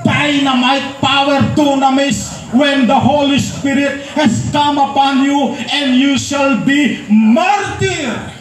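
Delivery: slow verse building to a shouted martyr; emphatic scripture reading. Acted. Preacher re-reading the verse to the church, slow and emphatic. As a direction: lay out each word and land hard on martyr.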